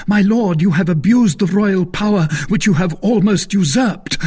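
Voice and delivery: loud, high-pitched denunciation; increasingly excited. A narrator's reading. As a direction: denounce him with mounting zeal. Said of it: "becoming more excited as he spoke".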